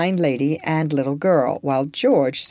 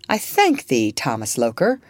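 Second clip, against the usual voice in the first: calm; 3 semitones lower than usual. Acted. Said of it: "with her usual calmness".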